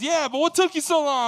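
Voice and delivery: very high, loud nagging imitation; insistent dad. Dad asking his son a second time, loud mock insistence. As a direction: press the question as the impatient dad.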